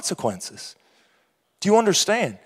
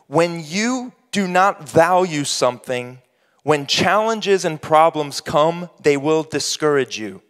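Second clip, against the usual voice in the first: very slow, measured, weighty reading; slower than usual. Real, not acted. Preacher reading a word from the Lord to the congregation, slowly. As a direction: read it out slowly, pausing between phrases. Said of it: "I'm gonna read this slowly".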